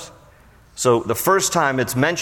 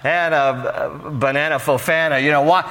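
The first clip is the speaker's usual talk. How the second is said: mock clueless husband; 4 semitones higher than usual. Pastor mocking Elkanah pleading with weeping Hannah, high and hammed-up. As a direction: ham up a clueless husband begging his wife. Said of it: "he's basically saying to her".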